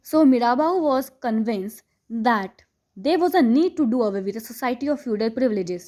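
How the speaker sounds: slow, deliberate reading of the English text; textbook read aloud. Acted. Teacher reading the chapter to students, slow and deliberate. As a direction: read each phrase slowly for the class.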